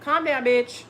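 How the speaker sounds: blunt self-talk. Shown as a demonstration. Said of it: "Be like".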